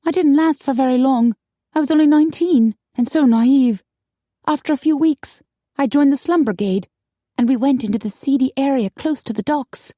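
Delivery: high, animated storytelling voice; Maggie, rueful. A narrator's reading. Naive woman telling friends how she got lost, high and rueful. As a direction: recount the misadventure high and ingenuous.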